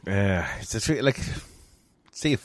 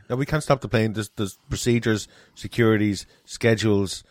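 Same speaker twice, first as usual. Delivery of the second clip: flat official refusal; lightly voiced airline staff; mock deadpan crew reply. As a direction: answer like a weary steward.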